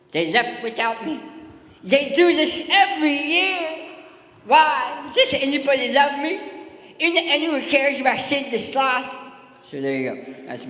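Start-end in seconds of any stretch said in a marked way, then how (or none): 0.1-9.1 high, loud lispy sloth whine; Sid the Sloth impression. Comic does his Sid the Sloth impression for the crowd, high lispy whine. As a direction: whine like an abandoned cartoon sloth. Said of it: "my Sid the Sloth impression?".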